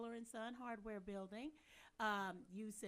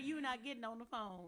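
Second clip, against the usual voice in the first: polite call center voice; 4 dB louder than usual. Acted. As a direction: put on a phone-agent voice. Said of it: "using your little call center voice".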